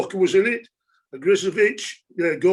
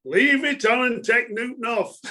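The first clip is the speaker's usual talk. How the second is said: higher-pitched mock heckle from the stands; retold fan shout; 5 semitones higher than usual. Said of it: "a fan from Huddersfield shouted".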